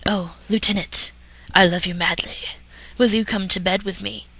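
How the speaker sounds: hint of a crooning leading man; hammy stage actor. Captain Kirk voiced in parody.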